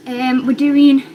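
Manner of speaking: breathless; out of breath. Real, not acted. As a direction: talk while short of breath. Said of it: "I'm out of breath now".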